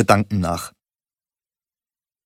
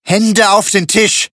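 slow, much higher shouted order; shouting; 10 semitones higher, 4 dB louder, slower than usual. A narrator's reading. Thug shouts an order at the narrator. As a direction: bark the command to freeze him. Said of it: "schrie er".

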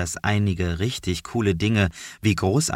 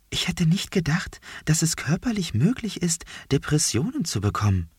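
whispering; 9 semitones higher than usual. Acted. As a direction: whisper it close to the ear. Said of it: "flüstert mir Vieh zu".

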